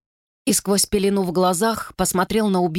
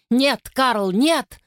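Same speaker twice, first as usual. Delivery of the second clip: shouting no; 6 semitones higher, much slower than usual. Acted. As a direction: cry out to stop him. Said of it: "выкрикнул Трид".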